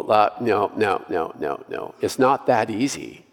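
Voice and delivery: mock enemy voice. Preacher voicing the enemy's dismissive taunt, dropping quiet. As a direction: let the no's sink to a hushed taunt. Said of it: "The enemy will come along and go".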